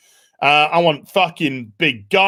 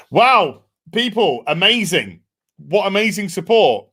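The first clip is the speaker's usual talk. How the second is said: higher, louder wowed exclamation; real amazement; 5 semitones higher, 3 dB louder than usual. Real, not acted. Host thanking supporters at seventy thousand, amazed. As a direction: marvel at the support.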